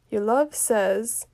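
slow, halting start with long pauses; drawn-out stalling. Acted. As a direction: hold the message back, pausing after "says". Nurse stalls before giving the message.

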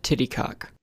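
playful whisper into the ear. Pretend. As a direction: breathe it as a naughty secret. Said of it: "I'll whisper it in your ear".

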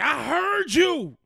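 high, slow, accusing mom; stern mom voice. Retold or imitated. Mom catching the kids cursing, high slow accusing voice. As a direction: draw it out like a mom who caught you.

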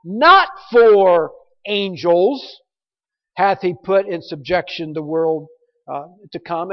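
slow, heavy stress on Not and angels; very emphatic. Shown as a demonstration. Preacher stressing Not to the congregation, slow and emphatic. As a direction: lean hard on Not, drawn out. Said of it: "it's very emphatic".

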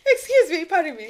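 laughing mock politeness. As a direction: play it extra polite while cracking up.

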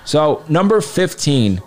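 slow, drawn-out entry announcement; top ten countdown. Acted. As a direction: spell out each name slowly.

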